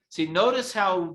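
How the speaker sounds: ordinary delivery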